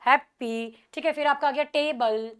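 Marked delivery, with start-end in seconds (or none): 0.1-0.8 "हैप्पी" with strong हैप, lighter पी; weight the first syllable of "हैप्पी"; stress on HAP. Shown as a demonstration. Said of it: "बाकी ये धीरे धीरे जा रहा". 1.6-2.4 "टेबल" split with weight on टे; stress on TAY. Shown as a demonstration. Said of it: "किस पे focus कर रहे हो".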